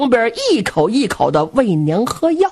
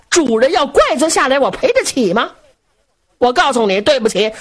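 raised, aggrieved complaint to the officers; grave keeper complaining; 4 semitones higher than usual. Acted. Grave keeper complains to Zhu Can before the officers, aggrieved. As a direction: grumble it out as the wronged grave keeper.

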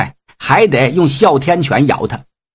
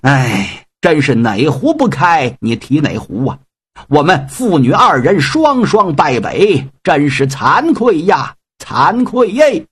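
put-on slow, sighing old man's lament; mournful lament. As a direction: groan out the shame of defeat. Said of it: "口打哀声".

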